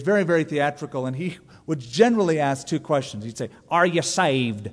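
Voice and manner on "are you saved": slow, drawn-out preacher question; imitating the evangelist. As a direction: mimic a theatrical TV evangelist asking. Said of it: "That's how he talked".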